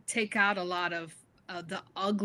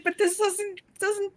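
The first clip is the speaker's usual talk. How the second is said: protesting; 11 semitones higher, 3 dB louder than usual. Retold or imitated. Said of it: "I was like".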